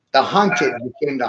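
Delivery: "the hunted became the hunter" with a flat falling statement tune. Shown as a demonstration. Rephrasing his friend's question as a firm falling statement. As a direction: state it, don't ask it. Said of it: "I'll say it as a statement instead".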